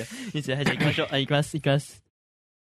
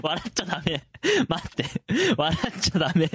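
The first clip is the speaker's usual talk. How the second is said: stifled giggles; faster than usual. Real, not acted.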